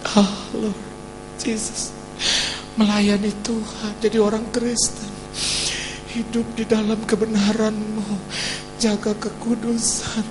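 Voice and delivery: tearful prayer. Retold or imitated. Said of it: "sepanjang dari rumah ke kantor nangis".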